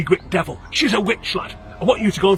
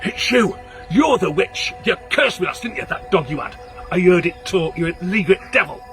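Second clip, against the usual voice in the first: accusing. Acted. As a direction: point and denounce the witch. Sick man accuses girl.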